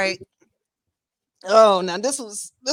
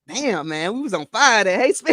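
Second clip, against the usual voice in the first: out of breath; 2 semitones higher, 4 dB louder than usual. Real, not acted. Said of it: "Let me catch my breath".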